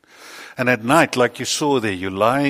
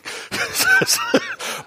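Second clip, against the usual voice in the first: high burst of laughter. Real, not acted. Big laugh from the congregation.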